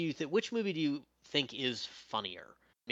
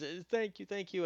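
grateful guy; 10 semitones higher than usual. Retold or imitated. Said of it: "comes back to him and says".

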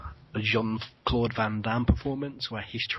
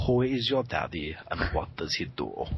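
put-on a lightly done lower, foreign-accented movie-tough-guy voice; action star impression; 5 semitones lower than usual. Quoting Kindergarten Cop to his co-host, in a lightly done action-star accent. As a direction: growl the famous line like the film's muscle-bound hero.

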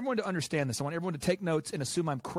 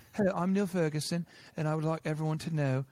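a lightly put-on, somewhat lower scientist's voice; Neil Ferguson voice; 3 semitones lower than usual. Mimicking the modeller announcing his forecast, lightly put-on lower voice. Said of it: "this is how he talks".

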